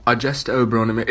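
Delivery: Shakespeare line in a British accent. Shown as a demonstration. Student showing why the line sounds better accented, British accent.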